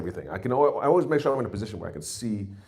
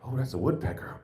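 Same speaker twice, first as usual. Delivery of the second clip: mock birdwatcher; 4 semitones higher, 5 dB quieter than usual. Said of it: "I'm like".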